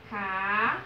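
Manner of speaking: CAFÉ split by a long pause, CA... FÉ; syllable by syllable. Shown as a demonstration. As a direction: hold each syllable of CAFÉ separately. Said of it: "Percebam que a sílabazinha mais forte".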